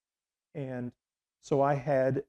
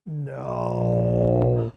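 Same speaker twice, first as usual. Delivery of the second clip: flat refusal; 2 semitones lower, 8 dB louder than usual. Retold or imitated. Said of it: "She went".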